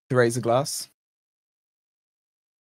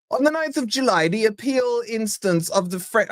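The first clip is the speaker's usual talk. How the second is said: professional posh voice; 2 semitones higher than usual. Pretend. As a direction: put on a pompous posh newsreader read. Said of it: "my professional posh voice on".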